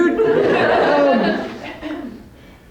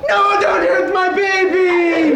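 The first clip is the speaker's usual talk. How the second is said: mock panic; 4 semitones higher, slower than usual. Begging butcher not to cut car.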